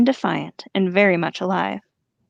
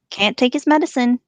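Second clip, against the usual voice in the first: higher-pitched orc taunt; jeering orcs; 5 semitones higher than usual. Acted. Orcs mocking Merry as he struggles, jeering. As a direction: jeer like a mocking crowd of orcs. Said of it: "they jeered".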